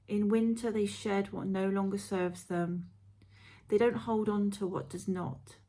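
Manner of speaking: guided meditation. Acted. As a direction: read it like a gentle guided visualisation.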